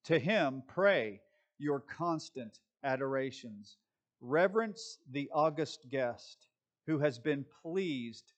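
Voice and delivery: solemn, measured read-aloud; reading a quotation. Acted. Pastor reads Spurgeon's words to his congregation, solemn and measured. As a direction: read it out with deliberate pauses.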